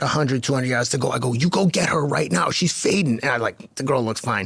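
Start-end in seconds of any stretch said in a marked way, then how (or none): 1.3-3.2 higher-pitched trackside urging; urgent coach command. Retold or imitated. Coach sending runner after a fading rival, urgent. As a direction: send the runner after her.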